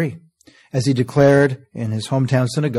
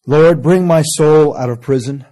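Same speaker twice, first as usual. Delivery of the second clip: fervent plea; 4 semitones higher, 6 dB louder than usual. Acted. Preacher crying out Psalm prayer.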